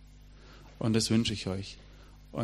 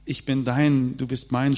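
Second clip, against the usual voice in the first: "Ich bin dein, du bist mein" called out louder, with feeling; proclaimed love vow; 2 semitones higher, 4 dB louder, slower than usual. Retold or imitated. The preacher declaring God's love to the congregation, louder and fervent. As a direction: proclaim it like a carved lover's vow. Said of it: "schreibt man unter Liebesbriefe".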